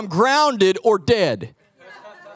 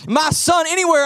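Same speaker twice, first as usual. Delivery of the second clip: higher, urgent and worried; worried asking; 6 semitones higher than usual. Retold or imitated. Father asking guest speaker about missing son, worried. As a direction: ask around in rising panic. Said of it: "I'm like".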